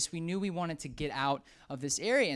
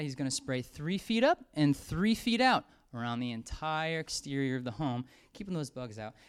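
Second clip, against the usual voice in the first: door-to-door pitch; 2 semitones lower than usual. Shown as a demonstration. Door-to-door pest control pitch.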